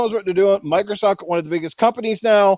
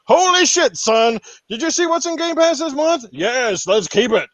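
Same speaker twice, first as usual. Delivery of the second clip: higher, hyped-up mock amazement; amazed gamer; 5 semitones higher than usual. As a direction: play a thrilled fan raving about new games. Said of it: "they want you going".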